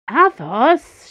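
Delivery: put-on high, loud childish whine; whiny man child. A narrator's reading. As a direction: whine his name like a kid. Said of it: "knowing she was whining like a child".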